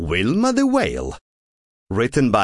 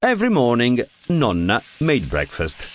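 ordinary delivery

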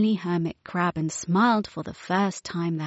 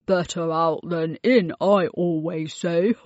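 chuckling. Acted. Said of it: "chuckled Abuelo".

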